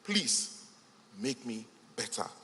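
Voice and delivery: begging. Retold or imitated. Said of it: "your environment is begging you".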